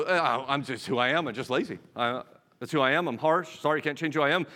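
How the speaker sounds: low-pitched, resigned mock self-excuse; mock shrugging excuse. Preacher voicing someone blaming their personality, mock shrugging excuse. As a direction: shrug it off as just your nature.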